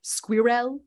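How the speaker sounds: put-on "squirrel" with a French accent, skwee-rel, ending on a rise; a French speaker attempting "squirrel". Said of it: "in his French voice".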